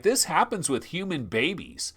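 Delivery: ordinary talk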